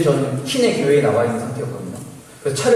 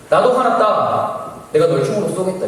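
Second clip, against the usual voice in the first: high, loud, drawn-out outburst easing slightly; mock angry threat; 6 semitones higher, 4 dB louder, slower than usual. Intruder threatening to shoot the student, hammed-up anger. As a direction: imitate a furious man's threat.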